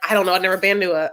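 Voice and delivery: put-on slight accidental Southern accent; lightly voiced Southern accent. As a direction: imitate him with a touch of Southern twang. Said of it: "making everyone have a Southern accent".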